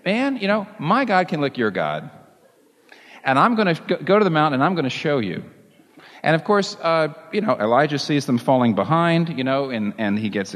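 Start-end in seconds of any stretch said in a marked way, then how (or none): 0.1-5.4 high, brash street-corner boast; brash challenge. Retold or imitated. Preacher boasting to Ahab's prophets, brash and high. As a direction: swagger it like a schoolyard dare. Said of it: "this is exactly what you'd say".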